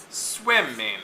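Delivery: swimming with SWIM stressed, ING light; stress on first syllable. Shown as a demonstration. Teacher showing suffix stress, swimming with SWIM stressed. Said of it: "is unstressed".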